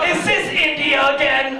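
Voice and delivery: high, complaining mother voice; suspicious mom. Retold or imitated. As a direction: imitate Mom doubting the caller.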